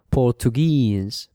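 "Portuguese" with the stress on the last syllable; final-syllable stress. Shown as a demonstration. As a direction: lean on the long final "guese" in "Portuguese". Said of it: "falls on the final syllable".

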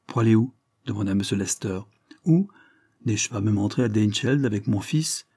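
put-on an old lord announcing his son with pride; proud old lord. Lord Dane to the squire, proud and booming.

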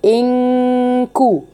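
slow ان كو with a held ghunna; ikhfaa demo. Shown as a demonstration. Teacher shows ikhfaa before the kaf. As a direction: hold the hidden nun before كو. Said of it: "اقصى لساني بيرتفع شويه عند الكاف".

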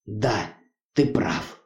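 soft, slightly slumped admission; calming down. A narrator's reading. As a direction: concede quietly after composing yourself. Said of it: "сделал два глубоких вдоха".

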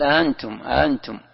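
"أنتم" with second hamza softened, halfway to alef; eased second hamza. Shown as a demonstration. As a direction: glide through the second hamza of "أنتم" without a full stop. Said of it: "بين، بين الهمزة والألف". ("أنتم" بتسهيل الهمزة الثانية بين الهمزة والألف)

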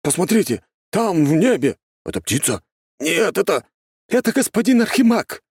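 high excited shouting; excited crowd cry. Acted. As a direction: point and shout at the sky.

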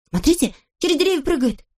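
high, eager shout; excited cry. A narrator's reading. A shorty shouting to the others, high and excited. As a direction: point at the leaping spot.

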